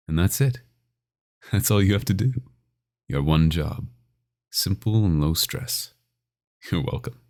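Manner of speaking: sing-song cheerfulness that sounds like a threat; mock cheerful. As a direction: sell the captivity as a bright, simple deal. Vampire dictating terms to captive.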